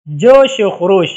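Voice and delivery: جوش و خروش said slowly, each word set apart with the linking و; careful example reading. Shown as a demonstration. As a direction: spell it out word by word. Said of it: "اس میں جوش ایک لفظ ہے اور خروش دوسرا لفظ ہے".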